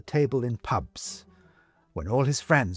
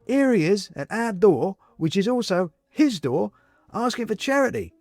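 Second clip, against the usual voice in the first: man's voice; 6 semitones higher than usual. A narrator's reading. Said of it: "says the man".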